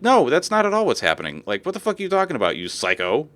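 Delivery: high, incredulous comeback; mock angry reply to bigots; exasperated retort. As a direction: talk back to them, fed up. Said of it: "it's like".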